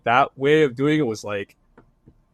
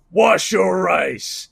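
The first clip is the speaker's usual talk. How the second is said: drawn-out, higher catchphrase call; mock catchphrase shout; 4 semitones higher, 3 dB louder, much slower than usual. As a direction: imitate a fan hollering a catchphrase, stretched out. Retold fan shouts catchphrase at him.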